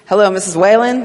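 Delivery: a bad, hammed-up American accent; terrible American accent. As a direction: put on a clumsy American accent for the guard. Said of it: "my terrible American accent".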